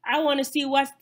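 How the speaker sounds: high, loud whoop of anticipation; whoop, then gush eagerly; excited. Retold or imitated. Vlogger retells hearing about the new movie, excited whoop. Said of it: "I was so excited".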